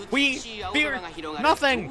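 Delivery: high, rising pep-talk cry; excited battle cry. Real, not acted. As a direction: pump yourself up, voice lifted high. Psyching herself up, repeats higher.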